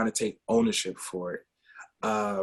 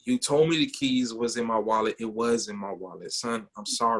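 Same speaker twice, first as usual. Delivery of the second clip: lower, sincere admission; retold apology; 3 semitones lower than usual. Dad apologizing to his woken son, sincere.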